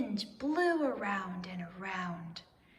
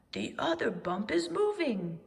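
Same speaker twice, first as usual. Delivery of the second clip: crying out; 3 semitones higher, 3 dB louder than usual. Acted. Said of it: "cried Owl".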